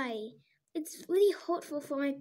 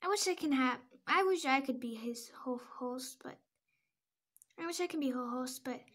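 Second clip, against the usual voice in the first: sad; 3 semitones lower, 6 dB quieter than usual. Acted. Stella sadly wishing for Apache.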